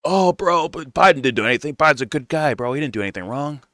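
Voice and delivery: high mock voice of a clueless Biden defender; mocking old Biden fan. Mock old voter defending Biden to streamer, high whiny voice. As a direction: squeak it out like a dopey old voter, bro. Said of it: "old people will be like".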